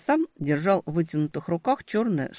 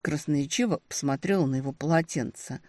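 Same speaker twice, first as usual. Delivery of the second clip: usual speaking voice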